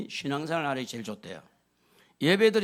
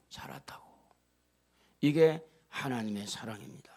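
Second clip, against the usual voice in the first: hushed, intimate whisper; tender whisper; 6 semitones lower than usual. Real, not acted. Pastor whispering God's love to the congregation. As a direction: drop to a whisper to move them.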